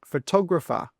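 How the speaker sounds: fə-TOG-ra-pher, stress on the second syllable. Shown as a demonstration. Teacher modelling correct stress to students. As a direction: say "Photographer" with the weight on tog. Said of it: "The first one is photographer".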